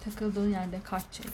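very slow, deliberate reading. Shown as a demonstration. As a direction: drag each word out slowly. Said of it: "Yavaş konuş".

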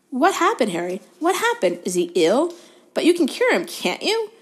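high-pitched, agitated burst of questions; eager schoolboy. A narrator's reading. Colin to Harry about sick Ron, high and agitated.

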